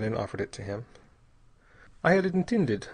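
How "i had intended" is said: higher-pitched but calm statement; calm, measured admission. A narrator's reading. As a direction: state it with complete composure. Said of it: "he said very calmly".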